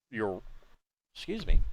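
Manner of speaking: talking through hiccups; hiccuping mid-sentence. Real, not acted. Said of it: "now I got the hiccups for some reason".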